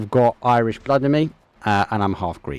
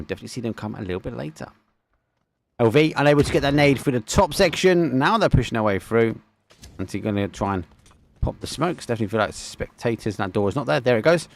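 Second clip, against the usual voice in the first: live play-by-play. Acted. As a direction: drive the commentary as the action heats. Caster calls live match.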